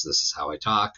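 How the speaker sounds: couch voice. Shown as a demonstration. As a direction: talk as if slouched on the couch. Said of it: "It's gravelly".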